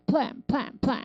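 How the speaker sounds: 플랜 with a firm PL burst from the lips; lips pressed on PL. Shown as a demonstration. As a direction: press the lips, then release 플랜 as one syllable. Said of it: "입술에 힘 주세요". (입술에 힘주어 플랜)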